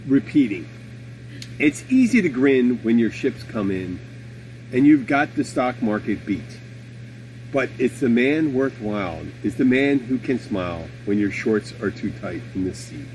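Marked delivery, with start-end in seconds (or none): 1.6-13.1 measured recital with pauses between phrases; poem recitation. Acted. Host reciting a poem worth repeating to open the show, measured recitation. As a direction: recite the verse line by line.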